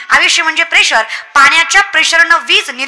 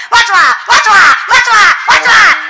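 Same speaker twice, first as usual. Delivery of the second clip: mock cries for help; 3 semitones higher, much slower than usual. Gorilla man calling for help in the lion cage, mock shouting. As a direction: yell वाचवा for dear life, mock. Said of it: "लागला हातनं वरडायला".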